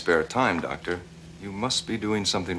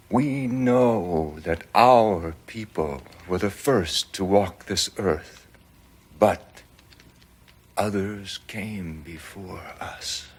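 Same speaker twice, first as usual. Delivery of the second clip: strong voice; slower than usual. Retold or imitated. Shaman addressing the gathered tribe, slow strong voice. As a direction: proclaim it slowly like a weak but proud elder. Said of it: "in a very strong voice".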